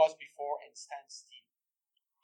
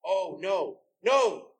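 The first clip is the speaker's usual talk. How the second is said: rising to a loud, higher no!; dismayed cry; 3 semitones higher, 6 dB louder, much slower than usual. Acted. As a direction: break out in dismay. She tries to sing, can't.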